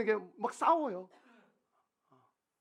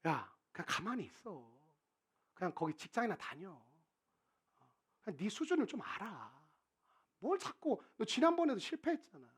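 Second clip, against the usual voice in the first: much softer, low, belittling voice; muted scornful discouragement; dismissive put-down; 3 semitones lower, 8 dB quieter than usual. Retold or imitated. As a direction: talk them down coldly.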